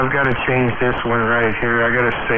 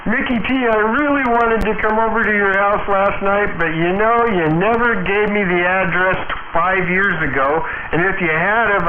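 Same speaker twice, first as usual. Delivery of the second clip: pitched higher, chatty and upbeat; lifted voice; 6 semitones higher than usual. Shown as a demonstration. Teasing Mickey T on air in a raised voice. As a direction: keep it up like talking across a room. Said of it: "try talking in a room-to-room conversation".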